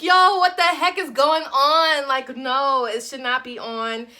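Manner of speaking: angry shout. Retold or imitated. Yelling at her car in frustration. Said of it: "I was like".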